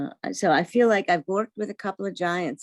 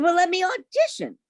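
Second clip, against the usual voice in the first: sharp, raised demand; pushy, high, louder retort; angry retort; 12 semitones higher, 4 dB louder than usual. Retold or imitated. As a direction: insist on a chance, irritated. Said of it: "I was angry".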